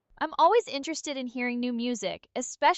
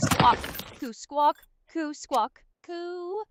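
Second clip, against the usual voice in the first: squawks jumping high, words dragged slow; a mind being taken over by pigeons; unhinged pigeon possession; 3 semitones higher than usual. Pretend. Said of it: "super unhinged squawking".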